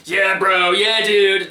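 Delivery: mocking wannabe-cool bro; a hint of dopey bro-speak; trying-to-be-cool voice. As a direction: lightly imitate a dude trying too hard. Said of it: "talking that stupid, trying to be cool voice".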